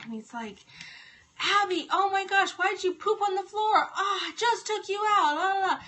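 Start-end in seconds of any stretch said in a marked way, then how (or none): 1.4-5.8 mock yell at the dog, pitched up; retold scolding. Son yells at the dog to stage a prank, mock scolding. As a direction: imitate a kid staging a scolding, raised voice. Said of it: "yelling at the dog".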